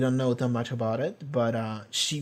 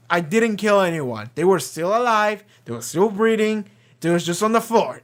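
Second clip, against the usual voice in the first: higher-pitched defensive retelling; mock protest; 6 semitones higher, 4 dB louder than usual. Amos answering guards who came to him, in mock defensive protest. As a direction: protest your innocence in an amused imitation.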